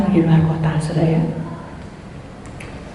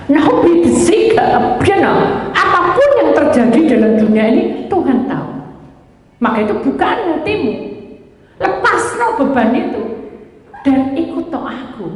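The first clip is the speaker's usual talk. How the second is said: preaching at full force; 6 semitones higher than usual. Acted. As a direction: lift it into a sung appeal to the congregation. Preacher lifts into sung exhortation. (berkhotbah penuh semangat setengah bernyanyi)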